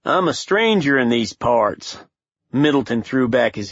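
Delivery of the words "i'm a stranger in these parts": cowboy twang. Acted. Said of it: "Swanson said with a cowboy twang".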